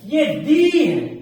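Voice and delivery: "दी" drawn out slowly as a long dee; slow down and stretch "दी". Shown as a demonstration. Teacher slowly showing the long "दी". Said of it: "जो long sound निकलती है".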